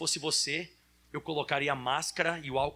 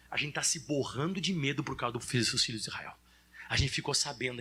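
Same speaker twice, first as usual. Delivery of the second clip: lower, hushed, fearful confession; frightened Rahab; 5 semitones lower than usual. Acted. Rahab confessing her people's fear, hushed and afraid. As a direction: confide in hushed dread. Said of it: "o que que a Raabe falou?".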